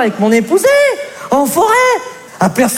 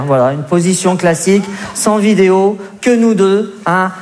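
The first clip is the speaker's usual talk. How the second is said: insistent shout; 6 semitones lower than usual. Acted. Husband insisting on plain sex.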